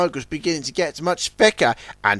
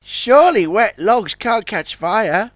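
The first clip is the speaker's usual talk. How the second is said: put-on higher young tug, slow and unsure; puzzled question; 6 semitones higher than usual. Sunshine asks Big Mac, slowly puzzled. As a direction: ask it wide-eyed and slow. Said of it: "asked Sunshine".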